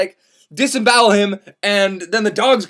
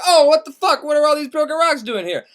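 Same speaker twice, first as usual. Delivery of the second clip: shocked Dante; 8 semitones higher than usual. Acted. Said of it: "Dante's like".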